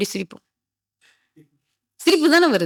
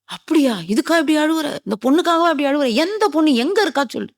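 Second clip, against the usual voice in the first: high, disbelieving mock interrogation; acted disbelief, pitch lifted; incredulous questioning; 6 semitones higher than usual. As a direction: fire higher-pitched questions, as if you can't believe him. Acted questioning of a lovesick weeper.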